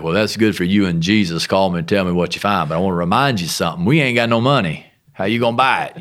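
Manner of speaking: loud, sarcastic reality check; carnal skepticism. Retold or imitated. Husband deflating his wife's spiritual plan, sarcastic. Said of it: "real spiritual sense I had called carnality".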